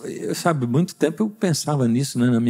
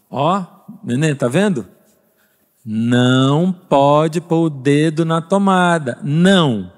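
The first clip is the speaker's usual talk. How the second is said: slow, louder "Não pode pôr o dedo na tomada"; warning a baby; 3 dB louder, slower than usual. Retold or imitated. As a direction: spell it out slowly to a toddler. Warning a baby about the outlet.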